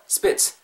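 "spits" as one short, forceful burst; short stressed "spits". Shown as a demonstration. Teacher drilling the key word for learners, "spits" short and stressed. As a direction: punch "spits" short with a sharp final ts. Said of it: "짧고 굵게".

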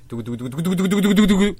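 crisp, punchy spoken drumroll; proper drumroll. Shown as a demonstration. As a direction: show how a drumroll is done. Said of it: "잘 봐. 어떻게 하냐면".

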